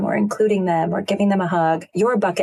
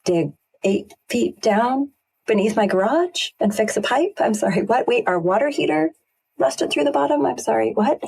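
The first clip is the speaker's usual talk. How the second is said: incredulous disbelief; 5 semitones higher than usual. Retold or imitated. New homeowner hearing of each costly repair, incredulous and rising. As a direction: pitch climbing higher with each shocked question. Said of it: "it's just like".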